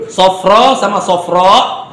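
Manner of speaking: sofro then sofro, the second stretched; contrasting readings. Shown as a demonstration. Teacher contrasting short and long madd for class: sofro. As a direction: say both, lengthen the second. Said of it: "beda sama".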